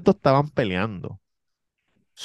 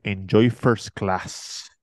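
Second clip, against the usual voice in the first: smug drawn-out; much slower than usual. Retold or imitated. Man's smug parting line.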